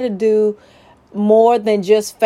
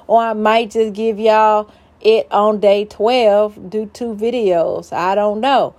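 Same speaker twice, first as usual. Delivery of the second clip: ordinary talk, nothing marked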